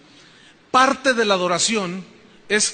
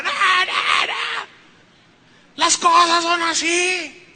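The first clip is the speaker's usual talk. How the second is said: much higher, shouted protest; shrill shouting wife; 9 semitones higher, slower than usual. Retold or imitated. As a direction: cry out against the philosopher. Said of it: "Y la mujer gritaba". (la esposa de Sócrates protesta gritando, aguda)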